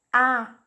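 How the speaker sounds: the vowel "A" said loud and open, with extra force; forceful vowel A. Shown as a demonstration. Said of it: "é pronunciado com mais força".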